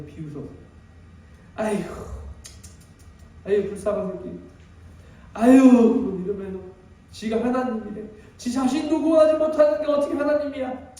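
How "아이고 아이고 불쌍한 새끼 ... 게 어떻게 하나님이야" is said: mocking jeer. Crowd jeering at Jesus on the cross, scornful. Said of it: "비웃고 손가락질 했다는 것이죠".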